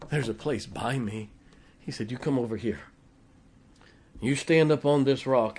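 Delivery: a hint of a gentle God; tender voice of God. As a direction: speak as God gently inviting Moses. Paraphrases God speaking tenderly.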